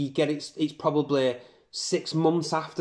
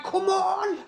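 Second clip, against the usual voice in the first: retold scream. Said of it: "he's, like, screaming".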